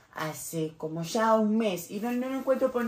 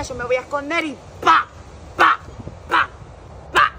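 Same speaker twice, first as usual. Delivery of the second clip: excited; 5 semitones higher, 7 dB louder than usual. Acted. Kid acts out trap.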